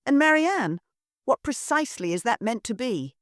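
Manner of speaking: high, disdainful matron voice scolding her daughter; a sneering society mother, pitched high; haughty mother. Acted.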